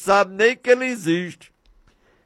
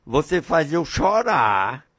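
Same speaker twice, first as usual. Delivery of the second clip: low, soft father's voice; hushed, lightly voiced father; moved father; 4 semitones lower, 4 dB quieter than usual. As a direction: answer the child tenderly, low and quiet. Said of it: "Aí o pai chegou".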